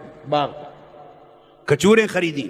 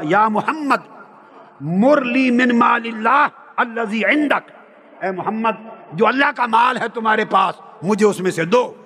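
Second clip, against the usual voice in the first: harsh, raised mock yell of a rough villager; rude shouted demand; 3 semitones higher than usual. Preacher acts the bedouin roughly demanding Allah's wealth, with a raised mock shout. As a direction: bark the demand at him, no courtesy. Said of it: "आराम से बात नहीं की".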